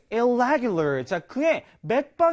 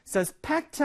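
suspect with the stress on PECT; light first syllable, stressed second in suspect; 4 semitones higher than usual. Shown as a demonstration. Teacher showing the verb, suspect stressed on the back syllable. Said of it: "뒤에 강세가 있어요".

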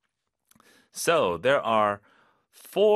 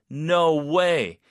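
high, loud "no way" of astonishment; amazed disbelief; 4 semitones higher, 5 dB louder than usual. Shown as a demonstration. Teacher hearing James climbed Everest, amazed and disbelieving. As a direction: react as if it's too amazing to believe. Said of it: "믿기 힘들 때도 no way고".

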